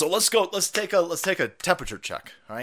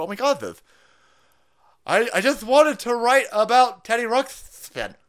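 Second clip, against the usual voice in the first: put-on kid voice; 7 semitones higher, 5 dB louder than usual. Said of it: "they're sitting there going".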